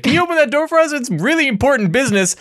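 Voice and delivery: high, eager mock plea; mock eager request. Friend retells asking custodians to open the door, mock eager. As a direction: ham up the eager rock-holder asking a favour. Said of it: "I was like".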